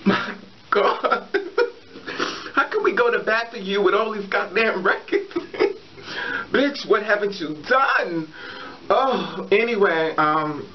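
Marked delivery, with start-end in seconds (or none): 0.0-8.3 words broken up by giggles; laughing through words. Real, not acted. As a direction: force the question out through laughter. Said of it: "It's not funny".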